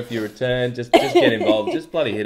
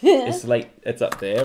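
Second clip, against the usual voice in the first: Northern Irish accent; slower than usual. Shown as a demonstration. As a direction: show how Northern Irish goes up. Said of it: "So, Northern Ireland".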